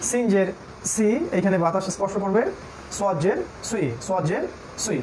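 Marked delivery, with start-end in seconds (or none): 2.9-5.0 "সদ জের সুই" with a sharp, crisp s. Shown as a demonstration. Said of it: "এগুলো শার্প হবে". (তীক্ষ্ণ করে "সদ জের সুই")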